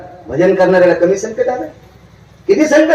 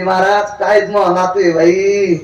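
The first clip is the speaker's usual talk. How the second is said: imitating village woman; 3 semitones higher, slower than usual. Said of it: "एक बाई म्हणली".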